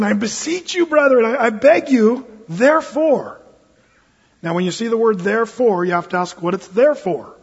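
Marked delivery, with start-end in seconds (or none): 0.0-3.4 impassioned plea. Acted. Impassioned voicing of Paul.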